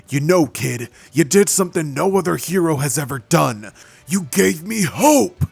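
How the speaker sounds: building to a high, loud cry; rousing heroic declaration. Acted. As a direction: lift it into a triumphant shout. All Might winds up his punch.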